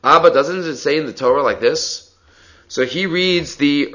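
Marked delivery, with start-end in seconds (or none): 0.0-2.1 "doesn't it say" put as a mild question; understated question to "Abba"; read as a question. Shown as a demonstration. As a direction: ask lightly through to "like this". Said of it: "reads the maskana as a question".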